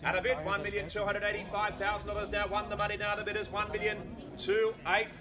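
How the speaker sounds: steady auctioneer patter on a level tone; auctioneer's call. Real, not acted. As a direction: hold the bid on one note, projecting to the crowd. Auctioneer calls the bids.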